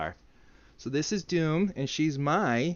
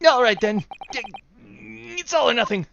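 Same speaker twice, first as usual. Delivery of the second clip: high, loud, dramatic declaration; hyped up; 11 semitones higher, 6 dB louder than usual. Acted. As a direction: pump yourself up for battle. Hyping up dramatically.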